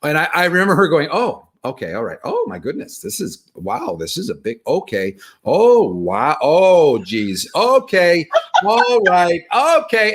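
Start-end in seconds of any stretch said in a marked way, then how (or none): 1.1-10.1 mock nurse winding up from calm to high alarm; rising nurse voice. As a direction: act the nurse getting more alarmed and higher each word. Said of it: "she's getting higher and higher".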